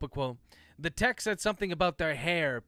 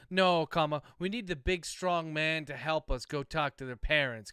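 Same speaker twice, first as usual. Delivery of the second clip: sarcastic; 3 dB louder than usual. Acted. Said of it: "Chase said sarcastically".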